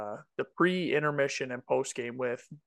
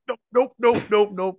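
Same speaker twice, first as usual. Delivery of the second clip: high, loud bratty refusal; defiant kids; 8 semitones higher, 8 dB louder than usual. Retold or imitated. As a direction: kids shouting nope. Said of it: "they're just like".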